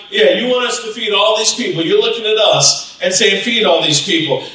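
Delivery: quick, cocky pushback; mock-cocky disciple talking back. Disciple challenges Jesus over feeding all these people, cocky. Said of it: "he was probably being cocky".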